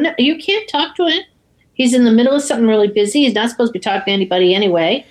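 retold fast, fussy excuse; hurried brush-off. Carter fobbing off a phone caller, hurried.

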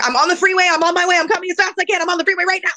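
high, loud, urgent rush of phrases; panicked high-pitched phone outburst; frantic retold shouting. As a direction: insist desperately that help is coming. Frantic retold call to doctor.

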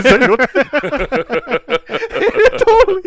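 words squeezed out through high laughter; can't stop cracking up while talking; laughing hard. Real, not acted. Cracking up over the story.

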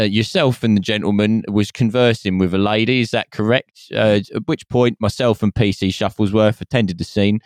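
stiff formal police officer voice; British cop voice. Retold or imitated. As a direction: read it like a pompous police statement. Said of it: "British cop voice".

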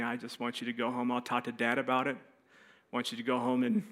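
low, soft instruction; quiet, subdued mom. Retold or imitated. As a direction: imitate mom speaking quietly after the shame. Mom's quiet talk going home.

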